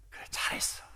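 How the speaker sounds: whispered, very soft acted praise; quiet reassurance. Someone close reassuring the accompanist after the service, hushed whisper. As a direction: murmur it almost without voice, as private encouragement.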